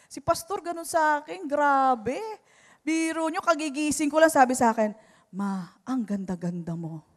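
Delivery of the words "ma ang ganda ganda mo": soft, low murmur of praise; retold sweet compliment, said low and gently; lower, softer, affectionate; tender compliment. Husband compliments wife just awake.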